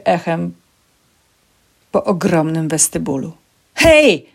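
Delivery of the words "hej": high, loud shout; calling out. A narrator's reading. Security guard shouts after a fleeing woman, high urgent call. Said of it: "zawołał ochroniarz".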